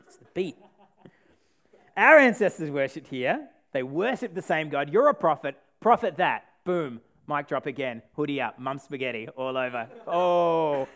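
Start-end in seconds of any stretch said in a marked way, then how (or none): 2.0-6.4 louder rhythmic sassy comeback. Retold or imitated. Preacher voicing the woman's sassy mic-drop comeback, rhythmic.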